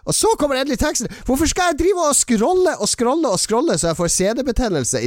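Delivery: high-pitched comic outrage; exasperated rant. Acted. Host rages at news site, high exasperated rant.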